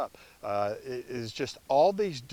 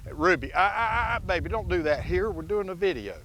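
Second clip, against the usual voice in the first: higher, hurried plea to the dog; flustered scolding; 8 semitones higher, 5 dB louder than usual. Real, not acted. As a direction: stop her before she does it. Scolding dog mid-video.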